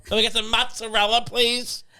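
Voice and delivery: polite ordinary deli order; plain American mozzarella. Shown as a demonstration. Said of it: "You know".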